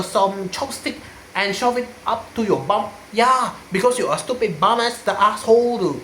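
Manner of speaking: mock Malaysian English, lah and ma; a hint of Malaysian English; Malaysian English accent. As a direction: put on a lightly voiced Malaysian accent. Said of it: "speak in different accent more".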